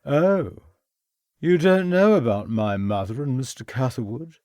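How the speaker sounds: put-on brash young gentleman, a bit tipsy; young toff voice. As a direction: careless upper-class young man.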